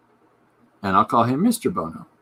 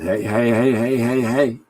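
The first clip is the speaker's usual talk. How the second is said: a string of hammed-up "hey"s, a touch louder; mock rock-star greeting; 5 dB louder than usual. Retelling the guest's reply, a hammed-up rock star greeting. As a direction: wave it off like a rock star, playful. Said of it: "frankly said".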